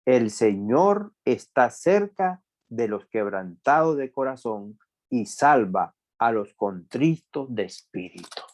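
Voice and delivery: slow, measured verse reading; scripture reading. A narrator's reading. Preacher reading a psalm to listeners, slow and deliberate. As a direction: read it out slowly, phrase by phrase, dropping away at the end. Reads a Bible verse aloud.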